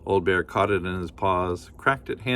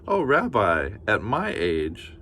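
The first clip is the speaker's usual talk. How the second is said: slow, coy little laugh of a line; bashful granny; slower than usual. Acted. Granny licked by the bear, bashfully slow. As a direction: say it flustered and flattered. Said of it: "Baba Brena blushed".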